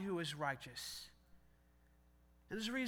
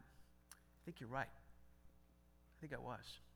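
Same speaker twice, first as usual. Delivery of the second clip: slow, breathy whisper of surrender; quiet admission; 9 semitones lower, 17 dB quieter, much slower than usual. Retold or imitated. Admitting to himself he was wrong, slow whisper. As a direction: barely breathe the confession. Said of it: "I had to look up and I went".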